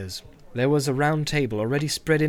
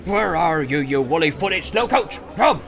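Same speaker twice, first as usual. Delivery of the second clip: louder bossy call across the inn; calling for servant; 2 semitones higher, 4 dB louder than usual. Acted. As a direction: summon the lazy servant. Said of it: "he shouted".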